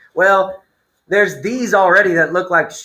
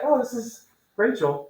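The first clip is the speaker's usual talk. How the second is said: mom voice; 5 semitones higher, 7 dB quieter than usual. Retold or imitated. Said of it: "And your mom's like".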